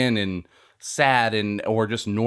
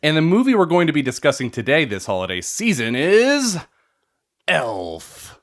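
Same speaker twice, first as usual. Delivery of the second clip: monster truck ad; 3 semitones higher than usual. Acted. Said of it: "that's the kind of voice you use".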